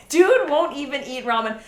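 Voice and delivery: amused echo, laughing as you say it. Real, not acted.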